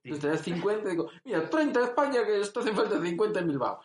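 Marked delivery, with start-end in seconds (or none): 1.2-3.8 lightly imitated Basque accent, higher. Bilbao local lending money, imitated Basque accent. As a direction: put on a Basque accent, pitched up. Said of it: "Porque es acento vasco".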